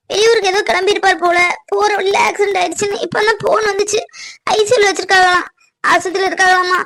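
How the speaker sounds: upset, on the edge of crying; tearful. Acted. Daughter telling mother of the accident, tearful. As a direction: tell it through tears. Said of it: "ஏன், ஏன் அழுதுட்டு இருக்க?".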